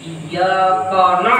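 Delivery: Iyyaka na with a thick, heavy na, slowly. Shown as a demonstration. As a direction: weigh down the na. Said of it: "Oh, tebal, lihat ainnya". (na dibaca tebal)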